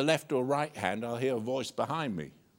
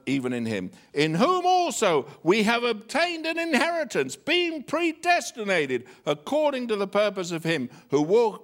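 forceful scripture reading; 7 dB louder than usual. Acted. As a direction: proclaim the verses to the congregation at full voice.

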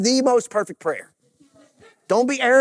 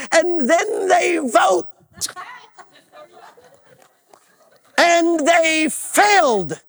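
full-force preaching; 3 semitones higher than usual. Real, not acted. Preacher rallying the congregation through the Exodus story, full force. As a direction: preach it hard, pitched up on key words.

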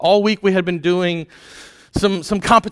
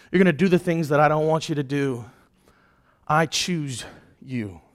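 gentle quiet; 3 semitones lower, 4 dB quieter than usual. Pretend. God speaking to sinners.

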